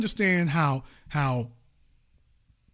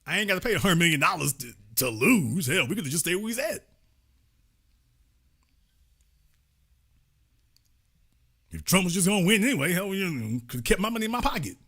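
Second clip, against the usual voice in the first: complaining rich donor; 3 semitones higher, much faster than usual. Retold or imitated. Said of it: "Morgan is like".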